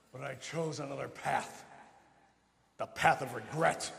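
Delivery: Grim Reaper voice. Acted. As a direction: intone it like a ghostly messenger. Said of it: "knock off the Grim Reaper voice".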